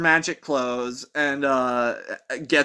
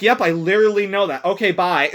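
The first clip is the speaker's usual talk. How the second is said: quick brush-off; 3 semitones higher, faster than usual. Retold or imitated. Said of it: "grazes past it so quickly".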